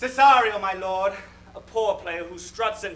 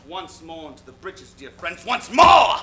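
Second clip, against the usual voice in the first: rallying cry; 3 semitones lower, 8 dB louder than usual. Acted. Rallying battle speech parody.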